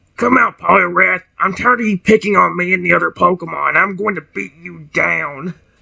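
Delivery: rough, creaky, roughened creature voice. Speaking as Feraligatr, challenging Poliwrath: voicing Feraligatr. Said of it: "I wish my voice, my regular voice was a little bit better".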